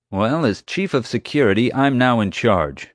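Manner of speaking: lightly voiced man asserting his authority; hint of officious chief. Security chief takes over the investigation, officious.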